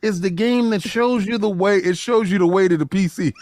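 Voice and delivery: lightly voiced smug console fanboy; Sony fanboy voice. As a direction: brag like a proud Sony fan. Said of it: "I need the S S D in the Sony baby, uh, voice".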